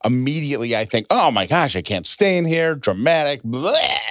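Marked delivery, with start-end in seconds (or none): 1.1-4.0 higher, overwrought little freakout; mock dramatic panic. To her co-host, mocking her own reactive panic. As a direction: play up a reactive overreaction. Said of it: "I'm reactive".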